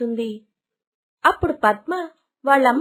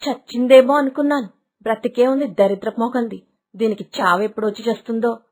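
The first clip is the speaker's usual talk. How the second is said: lower, muttered malice; spiteful aside; 4 semitones lower, 3 dB louder, faster than usual. Acted. Stepmother to herself on finding the child alive, bitter aside. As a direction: curse the child under her breath.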